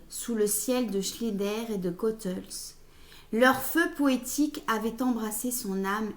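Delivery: measured recital, phrase by phrase, each line easing down; literary reading. Acted. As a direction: read the extract aloud like poetry. Reads a literary extract aloud.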